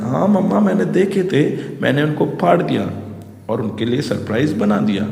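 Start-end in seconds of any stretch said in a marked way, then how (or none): 0.0-2.9 a lightly voiced small girl, higher; a hint of a little girl. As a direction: play the proud child, pitched up. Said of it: "Kezia बोलती".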